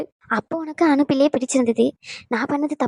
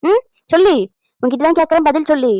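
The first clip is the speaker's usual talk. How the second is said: angry demand; 2 semitones higher, 5 dB louder than usual. Acted. Mother-in-law angrily demanding an answer from her. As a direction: press her hard to answer now.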